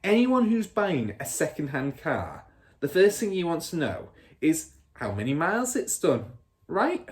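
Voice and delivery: father lecturing. Acted. Father explaining his scam to his son, showy. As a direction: sell the idea to the boy.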